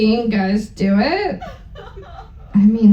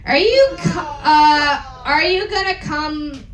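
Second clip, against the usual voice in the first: mild mock yell; a lightly hammed-up yell. Reading the fanfic aloud, a mild mock yell. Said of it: "I yelled".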